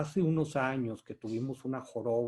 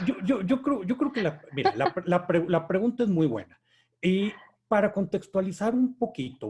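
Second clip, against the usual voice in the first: nervous laugh; 6 semitones higher, 5 dB louder than usual. Real, not acted. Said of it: "pues es, es de nervios".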